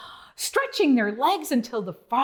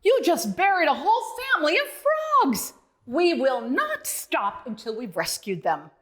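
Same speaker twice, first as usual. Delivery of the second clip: loud bark; 3 semitones higher than usual. Acted. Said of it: "Duke loudly barked".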